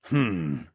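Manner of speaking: short, considering "hmm"; pensive hum. A narrator's reading. Raptor man musing beside his friend, pensive hum. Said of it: "he hummed again".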